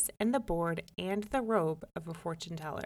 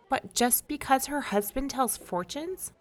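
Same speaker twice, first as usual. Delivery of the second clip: scornful, raised question; indignant protest; 6 semitones higher than usual. A narrator's reading. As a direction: sneer at the fortune teller. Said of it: "protested Jamel".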